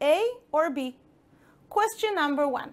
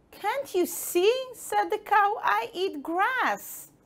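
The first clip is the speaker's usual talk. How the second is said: cow voice; 9 semitones higher than usual. Acted. Cow character answers.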